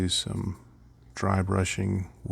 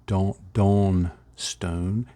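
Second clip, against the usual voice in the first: southern accent; 3 dB louder, much slower than usual. Shown as a demonstration. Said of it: "I have to say it with a southern accent".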